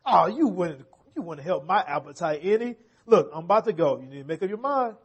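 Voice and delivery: a hint of a sly, coaxing fox. Preacher voicing the fox tempting the gingerbread man, lightly sly. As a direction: tempt the cookie onto your back, lightly. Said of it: "What does the fox say?".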